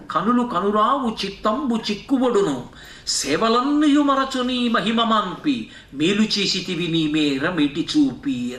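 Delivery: slow, sustained poem chant; verse recitation. Acted. Preacher quoting a verse to his listeners, slow recitation. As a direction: draw out the syllables of the verse.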